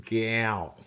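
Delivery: "Gal" falling, pulled back into the throat; falling tone, throaty. Shown as a demonstration. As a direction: let "Gal" drop in pitch. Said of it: "With a falling tone".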